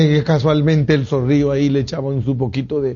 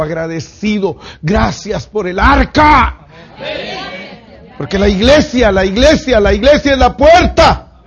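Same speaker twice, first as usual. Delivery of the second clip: high, louder preacher cry building up; preaching at full force; 7 semitones higher, 5 dB louder than usual. Acted. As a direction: climb to a shouted climax. Predica con fuerza creciente. (predicación a gritos)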